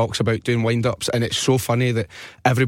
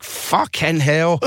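drawn out mock shout, higher pitch; retold exasperated shout; 5 semitones higher, much slower than usual. Taxi man hears old caller back, mock exasperated shout. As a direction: imitate a man at his wit's end, stretching each word. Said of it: "he would just be shouting".

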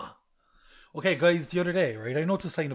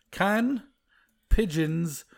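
slow word-by-word reading; much slower than usual. Shown as a demonstration. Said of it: "So I have to search".

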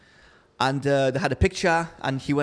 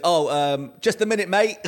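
retold Aussie reply, higher on the end; Australian accent; 4 semitones higher, 3 dB louder than usual. Golfer answering a knock on the toilet door, Australian accent. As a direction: put on a light Australian accent. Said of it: "an Australian accent".

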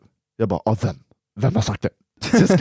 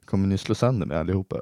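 calm voice; 3 semitones lower, 4 dB quieter, faster than usual. Retold or imitated. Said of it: "med lugn röst".

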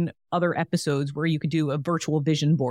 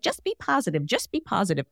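higher-pitched, lightly put-on chirpy optimist; mock Pollyanna; 4 semitones higher than usual. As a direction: play a Pollyanna cheerleading, lightly. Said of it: "like I'm a Pollyanna".

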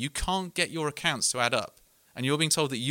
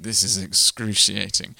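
dry aside; 6 semitones lower, 5 dB louder, slower than usual. Retold or imitated. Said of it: "Safraz sort of looked at me and went".

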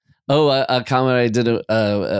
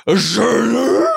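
Tim Allen; 11 semitones higher, 3 dB louder, slower than usual. Retold or imitated. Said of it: "That sounded more like Tim Allen".

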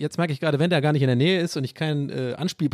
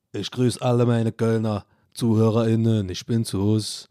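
put-on Cologne accent; 5 semitones lower than usual. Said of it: "Kölsch nachzumachen".

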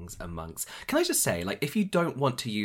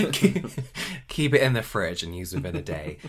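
mock home seller voice; 5 dB louder than usual. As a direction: lightly parody a garage seller. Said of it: "She's like".

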